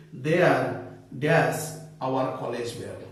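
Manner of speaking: slow, clear dictation read. Shown as a demonstration. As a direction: read the example slowly for the class. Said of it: "if I say".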